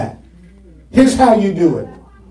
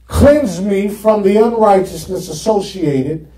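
praying to the Lord; 5 semitones higher than usual. Shown as a demonstration. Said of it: "So I go to the Lord".

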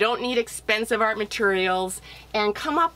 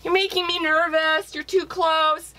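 nervous squirrel; 6 semitones higher than usual. Acted. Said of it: "he's saying".

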